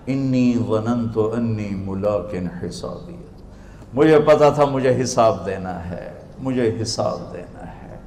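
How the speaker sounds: soft, slow, low reply; humble testimony. Acted. Passed soul explaining his success, humble quiet testimony. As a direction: say it quietly and slowly, with conviction.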